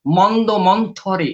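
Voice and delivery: মন্দ মন্থরে said slowly, each syllable clear; slow down and spell out মন্দ মন্থরে; careful pronunciation. Shown as a demonstration. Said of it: "ভাষাতাত্ত্বিকভাবে মন্দ".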